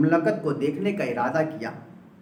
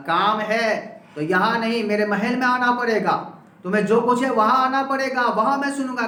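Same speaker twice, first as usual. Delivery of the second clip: mock-angry king, higher and louder with each line; angrier king; 5 semitones higher, 3 dB louder than usual. King angrily orders the man to come to his palace. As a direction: lord it over him, building anger. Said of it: "بادشاہ اور غصے میں آیا".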